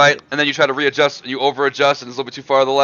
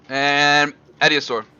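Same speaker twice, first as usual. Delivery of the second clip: normal talking voice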